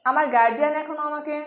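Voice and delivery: গার্জিয়ান said with a j sound; wrong pronunciation গার্জিয়ান. Shown as a demonstration. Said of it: "এই উচ্চারণটি ভুল". (ভুল উচ্চারণে গার্জিয়ান)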